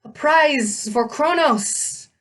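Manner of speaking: high, slow, drawn-out monster line; snake-woman voice. A narrator's reading. Snake woman claims the hero for her master, high creature voice. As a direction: savor it slowly as a snake creature.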